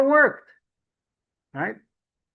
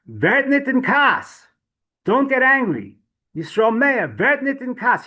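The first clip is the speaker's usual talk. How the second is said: high, louder pleading with himself; urgent self-command, pitched well up; self-admonishing; 9 semitones higher, 5 dB louder, slower than usual. Retold or imitated. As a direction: talk yourself out of anger, voice raised. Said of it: "He would talk him, to himself, telling himself".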